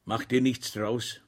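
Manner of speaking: slow, gentle reassurance; comforting. Acted. Schweig comforting the landlord, slow and gentle. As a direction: soothe the arrested friend, slowly. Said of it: "tröstete ihn Schweig".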